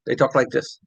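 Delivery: "talk like this" said as one unbroken string; parole legate. Shown as a demonstration. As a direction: run the words together. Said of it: "They don't separate the words".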